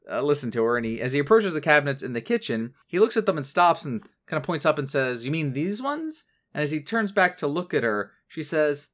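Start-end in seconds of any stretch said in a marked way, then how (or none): 5.2-6.2 put-on high, innocent kid voice; light boyish question; Steven voice. Steven voiced pointing at cabinets.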